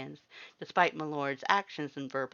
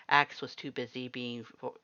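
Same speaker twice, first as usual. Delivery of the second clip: ordinary delivery, nothing marked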